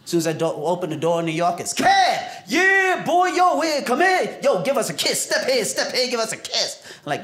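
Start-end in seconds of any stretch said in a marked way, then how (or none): 1.7-6.8 grandma calling out. Retold or imitated. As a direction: shout to the grandson like an eager grandma. Grandma shouting from the door.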